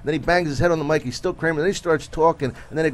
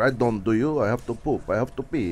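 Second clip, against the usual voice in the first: goofy character voice; 4 semitones lower than usual. Retold or imitated. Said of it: "I used to do this character".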